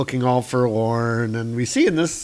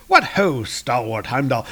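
Jeeves and Wooster greeting. Acted. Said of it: "What, what is that from? Jeeves and Wooster".

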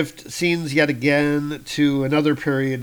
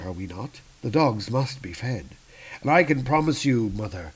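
chilling calm son. Acted. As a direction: promise death gently. Malekith's cold promise.

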